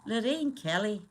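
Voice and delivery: attempted Scottish accent; put-on Scottish lilt; Lorraine Kelly. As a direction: have a go at a Scottish TV presenter's accent. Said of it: "I'm trying to do her accent".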